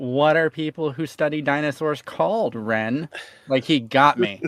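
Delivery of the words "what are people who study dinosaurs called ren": annoyingly pedantic, nitpicking know-it-all tone. Retelling a question Austin asked to catch the speaker out, imitating Austin's pedantic voice. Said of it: "in the most annoyingly pedantic voice".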